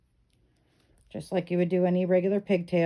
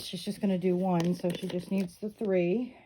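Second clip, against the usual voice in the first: hiccups; 5 dB quieter than usual. Real, not acted. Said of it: "Sorry, I have the hiccups".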